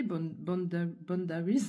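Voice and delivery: boundaries in English, stumbling into it; English word. Real, not acted. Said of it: "je l'entends en anglais".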